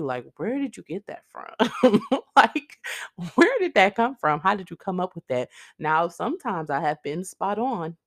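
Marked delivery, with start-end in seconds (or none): 0.4-5.5 high, loud disbelieving laugh-and-ask; incredulous friends. Retold or imitated. Imitating friends reacting to her wild scenario, high laughing disbelief. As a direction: pitch up in amused disbelief, laughing mid-quote.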